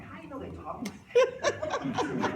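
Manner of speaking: high, slow laughing tease. Retold or imitated. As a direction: tease his wife, cracking up. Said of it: "I'm like".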